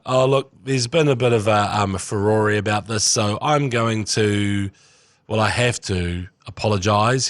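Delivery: slow, reluctant mock apology; half-hearted apology. Host mimicking the boss's grudging apology, slow and reluctant. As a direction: drag it out like you don't mean it. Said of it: "the worst half-assed apology".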